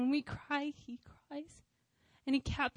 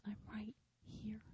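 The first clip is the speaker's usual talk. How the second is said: breathy whisper, tender and close; quiet whisper; 9 dB quieter than usual. Retold or imitated. God's quiet voice answering her on the floor, whispered. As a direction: whisper it like a comfort in the ear. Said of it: "In a quiet voice".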